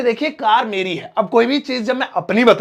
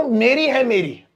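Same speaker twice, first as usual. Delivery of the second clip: "मेरी है, मेरी" with मेरी pushed hard; stress on मेरी. Shown as a demonstration. Teacher showing students the forceful मेरी. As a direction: press the word मेरी twice. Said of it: "इसमें ज्यादा जोर दिया जा रहा है".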